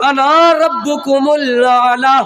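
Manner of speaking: slow, grand royal proclamation; a tyrant king proclaiming himself lord, slow and grand; Pharaoh's proud claim. Acted. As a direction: declare it like a haughty king. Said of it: "मैं ही पालने वाला हूँ।".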